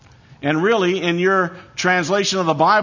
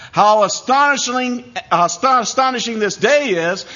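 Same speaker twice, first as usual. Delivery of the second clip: astonishment; 5 semitones higher than usual. Shown as a demonstration. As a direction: marvel at it as you say it. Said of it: "a phrase of astonishment".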